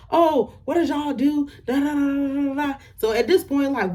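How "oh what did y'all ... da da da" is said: mocking the girl. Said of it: "But she like".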